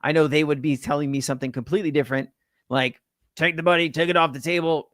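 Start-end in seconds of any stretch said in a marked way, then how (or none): 3.4-4.9 put-on light Southern accent. Cautious investor friend advising him to cash out, light Southern accent. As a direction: slip into a mild Southern twang. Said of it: "went in a Southern accent".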